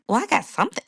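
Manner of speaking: mock-irritated pushback; retold mad retort. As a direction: snap back at the doctor, indignant. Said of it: "Like, I was mad".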